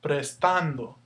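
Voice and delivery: "Prestando" with the weight on "tan"; careful demo of "Prestando", middle syllable accented; stress on middle syllable. Shown as a demonstration. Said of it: "Here's your stress".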